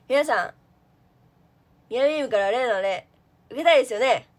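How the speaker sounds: loud emcee addressing the crowd; emcee imitation. Imitating a friend's loud crowd-hyping emcee talk. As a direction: call out to the audience like a host. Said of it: "こういう喋り方じゃん".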